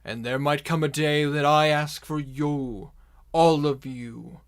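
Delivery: slow, loud, deliberate proclamation; villain's speech. Acted. Villain warns the gathered orcs he is watching, slow menacing oration. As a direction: address the horde slowly, hitting key words hard.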